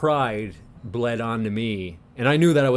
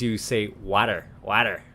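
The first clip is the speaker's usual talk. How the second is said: "water" with a Newfoundland vowel; Newfoundland accent on "water"; 3 semitones lower than usual. Shown as a demonstration. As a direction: say "water" the Newfie way, broad ah. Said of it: "In Newfoundlandese".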